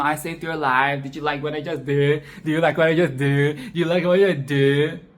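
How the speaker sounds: a hint of a smug, clingy boy; mock him asking for praise; lightly voiced pestering boy; mocking annoying boy. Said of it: "bubbly and springy and annoying and shrill".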